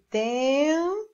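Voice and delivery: "tempo" split, "tem" held and rising, then "po"; dictating by syllable. Shown as a demonstration. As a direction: say "tempo" as if writing it. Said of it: "vamos escrever aqui". ("tempo" ditado sílaba por sílaba)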